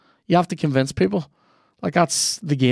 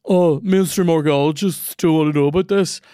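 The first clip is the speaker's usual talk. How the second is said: higher, earnest conspiracist voice; conspiracy theorist voice; 3 semitones higher, 4 dB louder than usual. Retold or imitated. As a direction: play the smug believer. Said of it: "people who are like".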